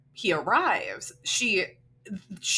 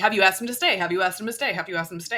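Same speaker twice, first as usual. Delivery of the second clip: nagging repeat; much faster than usual. Retold or imitated. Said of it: "repeatedly is like".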